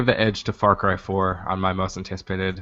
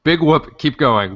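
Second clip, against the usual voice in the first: higher and louder, triumphantly repeating her words; gleeful echo; 7 semitones higher, 6 dB louder, slower than usual. Real, not acted. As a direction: shout it like a rallying cry. Gleefully repeating the celebrity's reply.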